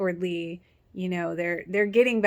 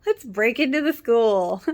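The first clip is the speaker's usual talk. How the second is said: put-on higher, louder, playful girl's voice; mock Anna voice; 6 semitones higher, 5 dB louder than usual. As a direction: voice her light and a bit higher. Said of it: "And she's like".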